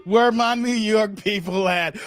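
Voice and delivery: slow, drawn-out roll call. Real, not acted. Host to his New York viewers, calling out. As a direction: stretch the words as a shout-out.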